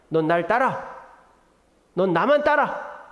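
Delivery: Jesus scolding Peter for his question. Retold or imitated. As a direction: tell Peter off, then command him. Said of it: "호통을 치시는 거예요".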